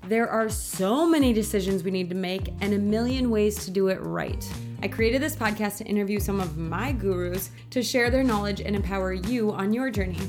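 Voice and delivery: upbeat, scripted welcome to listeners; polished podcast host opener; podcast intro read. Acted. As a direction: read the show intro with lift.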